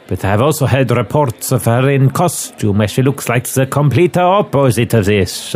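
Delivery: brief them on the suspect, measured; foreign inspector. Acted. Inspector describes the suspect from a sketch, lightly voiced gravity.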